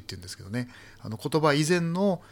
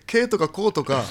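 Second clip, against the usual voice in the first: laughing; 6 semitones higher, 8 dB louder, slower than usual. Real, not acted. Laughing recap of dialect words.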